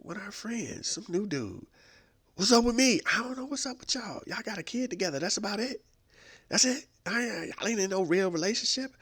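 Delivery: high-pitched exasperated mother; mama on the phone. Acted. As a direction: play the fed-up mom, voice up high.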